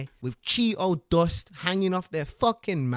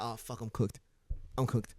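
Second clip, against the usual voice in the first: retold dismay; 3 semitones lower, 12 dB quieter than usual. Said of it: "I was like".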